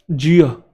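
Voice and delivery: जियो said as jee-uh with no r sound; silent r. Shown as a demonstration. Teacher showing students how to say जियो, r silent. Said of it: "आर silent होता है".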